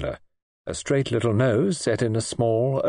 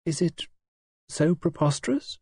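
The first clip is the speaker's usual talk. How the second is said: gentle and placid; 7 semitones higher than usual. A narrator's reading. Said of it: "in her gentle, placid voice".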